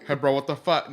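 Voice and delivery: weak Cajun accent attempt. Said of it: "You gotta do it in a Cajun accent".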